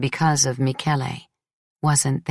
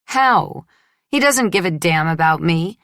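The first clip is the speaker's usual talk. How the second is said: sharp outburst; 3 semitones higher, 3 dB louder than usual. Acted. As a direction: fling it back, exasperated. Bitter retort in argument.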